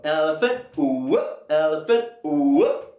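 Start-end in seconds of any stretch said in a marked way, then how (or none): 0.8-1.5 rising whoop as a pretend trumpet; goofy elephant whoop; silly elephant call. Shown as a demonstration. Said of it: "Elephants don't sound like that". 2.2-2.9 rising whoop as a pretend trumpet; goofy elephant whoop; silly elephant call. Shown as a demonstration. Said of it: "Elephants don't sound like that".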